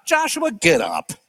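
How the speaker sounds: slow, level, unbothered Joshua, get up; calm firm reply. Acted. God answering Joshua's frantic complaint, calmly firm.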